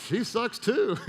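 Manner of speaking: high-pitched and laughing; gleeful mock relief. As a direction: playfully gloat through a laugh. Gleeful discovery of rival's flaws.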